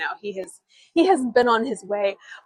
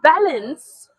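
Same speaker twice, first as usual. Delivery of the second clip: retold reply; 9 semitones higher, 4 dB louder than usual. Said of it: "she goes".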